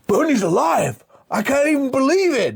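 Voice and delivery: high excited mock report; excited news. The bad guy telling his boss, high excited. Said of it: "the guy's like that to his boss".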